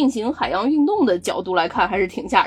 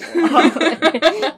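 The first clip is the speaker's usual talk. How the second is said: high burst of laughter; 6 semitones higher, 4 dB louder than usual. Real, not acted. Laughs at the podcast pun.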